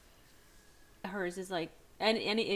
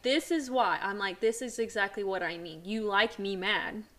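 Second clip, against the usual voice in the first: louder, heated telling-off, half in fun; mock angry rant; 6 dB louder than usual. Wife retelling how she tells off her joking husband, mock anger. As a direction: scold him like you mean it, almost. Retold argument with teasing husband.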